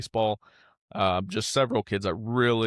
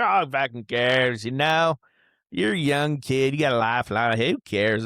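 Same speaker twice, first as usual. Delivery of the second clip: mock dismissive; 5 semitones higher, 6 dB louder than usual. Imitating the hard-headed adult to a young kid, mock dismissive. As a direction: imitate someone brushing off a kid's hurt.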